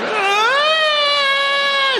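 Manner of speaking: very high shrieked sob; mock crying wail. The comic mimicking his teacher's wail at the swear words. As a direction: shriek like a teacher bursting into tears.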